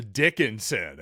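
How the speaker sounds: DICKINSON with the first syllable, DICK, emphasized; stress on first syllable. Real, not acted. Host jabbing at a disliked rival player, first syllable of Dickinson emphasized. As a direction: hit the DICK in Dickinson hard. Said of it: "really emphasize the first syllable".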